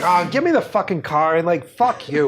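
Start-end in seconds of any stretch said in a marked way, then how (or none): 0.0-1.4 put-on Boston accent out of pure laziness; slack, lazy Boston speech. Beer drinker demanding the car, lazy Boston accent. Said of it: "just pure laziness, where it's like". 1.7-2.3 cursing in Boston dialect; beery Boston accent. Acted. Drinker after pounding beers, Boston accent. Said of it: "that accent comes from you".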